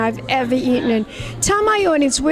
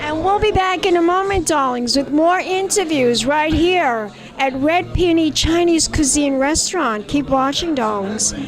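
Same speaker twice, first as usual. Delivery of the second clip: breathy vintage purr; 3 semitones higher than usual. Acted. Host's glamorous sign-off to viewers.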